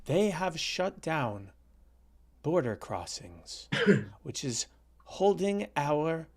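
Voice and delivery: slow, lightly voiced Trudeau; a faint put-on prime minister drawl; Justin Trudeau impression. Mocking Trudeau's speech to Matt, slow and faint. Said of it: "my Justin Trudeau voice".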